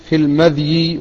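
"المذي" with a still dhal and light ya; سكون الذال. Shown as a demonstration. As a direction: say "المذي" as al-MADH-y, no vowel after the dhal. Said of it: "فإنه بفتح الميم وإسكان الذال المعجمة وتخفيف الياء". (نطق "المذي" بإسكان الذال وتخفيف الياء)

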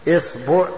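"إصبع" said as isbu', i then u; opening i, middle u. Shown as a demonstration. Teacher lists variants for students, "إصبع" as isbu'. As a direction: say "إصبع" with kasra on hamza, damma on ba. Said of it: "كسر الهمزة".

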